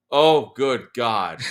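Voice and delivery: slow, drawn-out mock dismay; imitating a horrified friend, dragging it out; a touch of exasperated disbelief; dismayed groan. Friend watching in horror.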